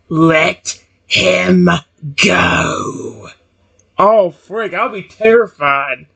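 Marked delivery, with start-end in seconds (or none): 0.1-3.3 low, menacing, dangerous, threatening tone. Narrator voicing a protective snake telling someone to let a man go, low threatening tone. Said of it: "He says in a low, threatening tone of voice".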